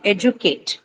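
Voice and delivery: "educate" with the opening "e" stressed; stress on first syllable. Shown as a demonstration. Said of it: "the stress is on the first syllable".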